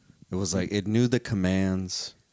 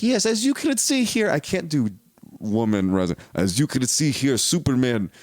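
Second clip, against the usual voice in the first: mock Russian accent; 4 dB louder than usual. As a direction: present the exhibit in a put-on Russian accent. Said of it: "They have accents on".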